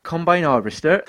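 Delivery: slow, unsure Australian attempt; attempted Australian accent. Shown as a demonstration. Asked to say it in Australian, slow attempted accent. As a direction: try it slowly in mock Australian. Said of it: "Say combine harvester in Australian".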